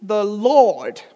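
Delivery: high, slow proclamation, drawn out; Mary. Acted. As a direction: declare it slowly and high, like a huge confession. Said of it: "Mary turns around, she's like".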